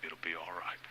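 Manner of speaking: softly imitating a comforting child; hushed, tender consoling; gentle reassurance. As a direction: soothe Daddy quietly, voice sinking. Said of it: "she patted me on the leg".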